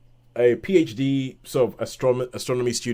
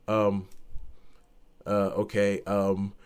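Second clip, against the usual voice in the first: hesitant unease; 4 semitones lower, 6 dB quieter, slower than usual. Acted. Professor voiced, troubled by calculation.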